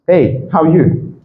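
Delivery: slow HEY, HOW ARE YOU rising then falling; intonation demo. Shown as a demonstration. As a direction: stretch it and let YOU fall away. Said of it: "Soit on monte ou on redescend". (HOW ARE YOU lentement, monte puis redescend)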